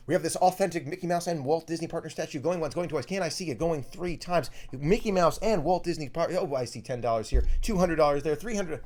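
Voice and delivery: fast, rising auctioneer patter. Pretend. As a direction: rattle off bids like an auctioneer. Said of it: "let's see if I can do it".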